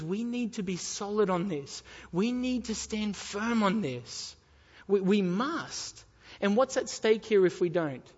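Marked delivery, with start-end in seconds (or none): 0.0-6.0 "solid", "firm" and "must" drawn out with weight; emphatic insistence. Real, not acted. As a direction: lean slowly on "stand firm" and "must". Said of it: "I'm stressing this".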